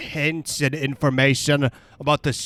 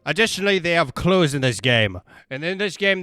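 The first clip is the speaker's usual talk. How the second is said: ordinary talk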